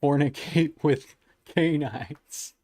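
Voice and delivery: slow troll line, breaking into a laugh; can't get through it without laughing; slowly said, cracking up; laughing quote. Retold or imitated. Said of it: "was like".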